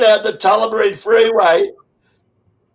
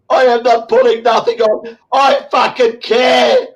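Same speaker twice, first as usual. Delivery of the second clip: insisting; 2 semitones higher than usual. Real, not acted. Telling critics he's not faking, shouting. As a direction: hammer each word.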